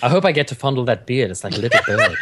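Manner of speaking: laughing creepily. Acted. Creepy joke reading fan line.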